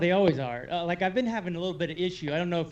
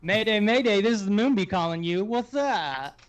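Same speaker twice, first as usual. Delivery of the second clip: mayday radio call; 4 dB louder than usual. Pretend. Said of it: "You sound like you're calling from the moon".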